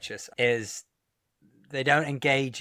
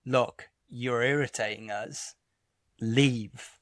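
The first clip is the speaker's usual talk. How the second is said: slow, measured stern telling-off; mildly stern, pause before the final word; slower than usual. Retold or imitated. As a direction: spell it out firmly, unhurried. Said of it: "even if you sternly say".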